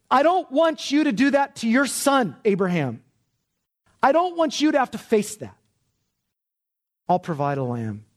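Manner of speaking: the Lord stopping Abraham, pleading and high. Acted. Angel of the Lord speaks.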